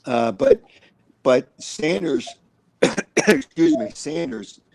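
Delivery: clearing a tickly throat; choked up. Real, not acted. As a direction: talk through a cough. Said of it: "I'm all choked up".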